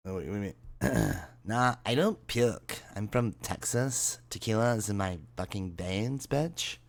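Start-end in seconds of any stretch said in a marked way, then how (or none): 1.5-2.8 put-on slow, sing-song Valley Girl, the last word jumping up. Shown as a demonstration. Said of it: "Is that better?". 3.0-4.2 put-on slow Valley Girl with a rising tune. Shown as a demonstration. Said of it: "Is that better?". 4.3-6.8 put-on slow, sing-song Valley Girl, the last word jumping up. Shown as a demonstration. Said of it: "Is that better?".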